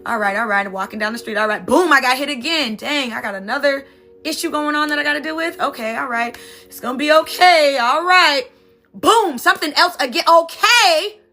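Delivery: each new blow pushes the voice up; mounting frustration. Acted. Someone acting out life's hits, building exasperation. Acts out being hit repeatedly.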